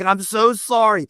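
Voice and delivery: high-pitched, drawn-out apology; mortified apology. Retold or imitated. Husband apologising to a famous director, mortified.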